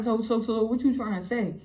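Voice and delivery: acted stammer on the opening word; imitating a nervous stammer; nervous stutter. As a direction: stall on the first word, then ask. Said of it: "he was stuttering and all that".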